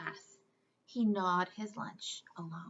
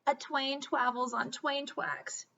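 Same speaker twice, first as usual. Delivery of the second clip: slow, sad "twain twavels on twain twacks"; reply miserably, R as W; slow unhappy reply to bullies, W for R; miserable W for R; 4 semitones higher, slower than usual. Acted. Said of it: "Wadney replied miserably".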